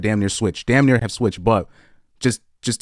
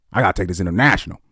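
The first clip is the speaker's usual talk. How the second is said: mock hustler pastor, faster; 3 semitones lower, faster than usual. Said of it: "they're like".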